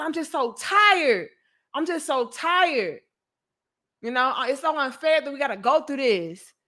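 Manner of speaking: mild mock outburst of frustration; retold despair. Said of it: "I was mad".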